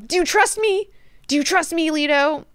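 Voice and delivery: high-pitched acted plea; pleading question. Duncan asking whether Leto trusts him, pleading.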